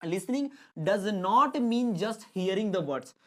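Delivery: slow, word-by-word reading; slow classroom dictation; dictation pace. Shown as a demonstration. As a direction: dictate it slowly for notes. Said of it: "reads definition slowly for dictation".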